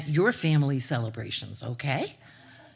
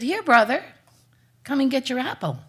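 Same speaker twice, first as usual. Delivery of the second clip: calling out; 6 semitones higher, 5 dB louder than usual. Acted. Calling the dead boy.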